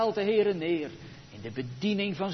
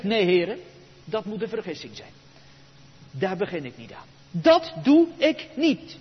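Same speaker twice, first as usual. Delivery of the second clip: refusing; 2 semitones higher, 5 dB louder than usual. Acted. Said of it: "Hij zegt".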